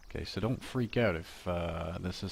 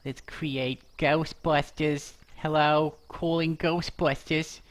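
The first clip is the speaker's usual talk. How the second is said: high, slow put-on voice; sing-song movie receptionist answering the phone; high, slow, nasal-free mock phone greeting; Ghostbusters receptionist voice; 8 semitones higher, 7 dB louder, slower than usual. Doing the Ghostbusters line.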